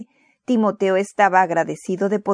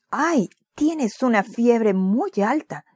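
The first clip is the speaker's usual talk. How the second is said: a high ay, then slow and concerned; mild alarm, then slowing down; exclaiming; 4 semitones higher, slower than usual. Acted. Mother feels her son's hot forehead, mild alarmed exclamation. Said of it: "exclamó".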